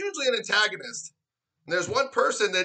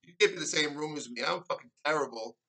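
mock crying; 3 semitones lower, 5 dB quieter than usual. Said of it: "You cry".

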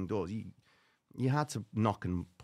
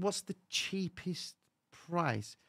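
haggling; 5 semitones higher, 8 dB quieter, much slower than usual. Retold or imitated. Haggling with the woman.

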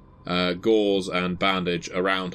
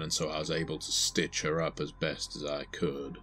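sheriff. Acted. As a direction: play a guarded sheriff answering the agent. Game master plays sheriff answering agent.

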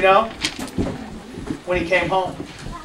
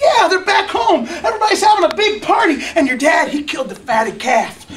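much higher, laughing gossip; gleeful servant; 4 semitones higher than usual. Acted. A servant telling the older brother about the party, high and laughing. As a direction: bubble over with party news.

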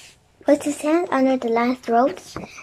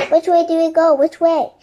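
loud, raised urgent question; insistent, higher storybook call; 4 semitones higher, 6 dB louder than usual. A narrator's reading. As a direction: call up to someone far off. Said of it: "Jack called out".

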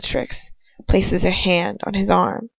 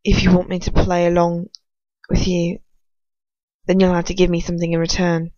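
firm. Acted. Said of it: "he says, his voice firm".

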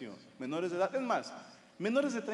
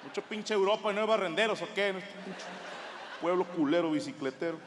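angry rant; 4 semitones higher than usual. Retold or imitated. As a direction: blow up at the city. Ranting at Amsterdam.

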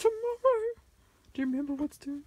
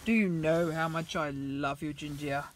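tender pet-owner voice; 7 dB quieter than usual. Acted. Cuddling pet toy Ginger.

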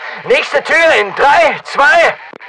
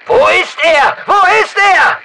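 higher, urgent shout; urgent call; 5 semitones higher than usual. Acted. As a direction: call out as the target slips away. Losing the target in a chase.

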